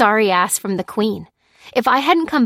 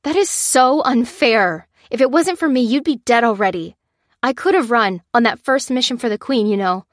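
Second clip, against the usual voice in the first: higher, louder furious defence; spitting anger; 4 semitones higher, 6 dB louder than usual. A narrator's reading. Lucy defending herself to Lopez, loud spitting anger. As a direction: spit the words at him. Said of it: "said Lucy, spitting".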